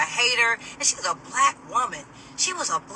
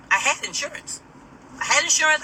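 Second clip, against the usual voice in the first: insistent protest; 6 semitones higher than usual. Real, not acted. Insisting on her innocence.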